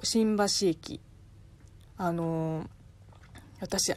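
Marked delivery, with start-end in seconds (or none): 0.0-1.0 slow 新橋駅 with the station suffix's accent clearly shown; accent demo. Shown as a demonstration. Host showing the accent shift when 駅 is added, slowly. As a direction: spell out the pitch of 新橋駅 slowly. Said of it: "後ろに駅をつけると".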